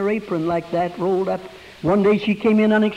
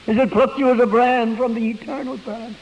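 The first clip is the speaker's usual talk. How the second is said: emphatic repeat; 4 semitones higher than usual. Shown as a demonstration. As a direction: preach it the second time with lift. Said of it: "repeated with force".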